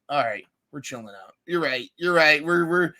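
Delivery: calming cool head. Retold or imitated. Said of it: "putting on that smooth song".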